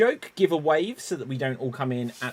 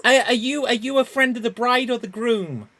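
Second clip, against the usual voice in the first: 1 excited flirt; 6 semitones higher, 8 dB louder than usual. Acted. Improv scene, flirting at wedding.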